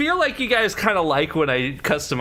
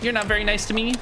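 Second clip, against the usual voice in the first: high whiny pleading voice; whiny mock plea; 11 semitones higher than usual. Complaining to game enemy.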